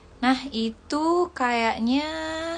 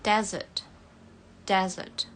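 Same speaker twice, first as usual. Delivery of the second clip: British accent. Shown as a demonstration. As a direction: say "Desert" the British way, r dropped. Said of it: "Untuk British desert". (logat British)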